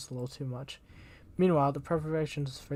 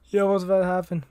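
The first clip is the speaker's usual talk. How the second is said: excited; 5 semitones higher, 8 dB louder than usual. Real, not acted. Anticipating the plot twist.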